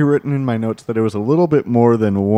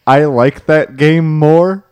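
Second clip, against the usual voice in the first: mocking quote; 3 semitones higher, 6 dB louder, slower than usual.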